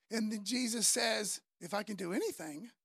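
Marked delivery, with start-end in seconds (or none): 1.6-2.7 low, softer questioning echo; understated disbelief, lifting at the end; incredulous echo. Acted. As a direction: quietly throw the doubt back as a question. Jesus questioning the father's doubt.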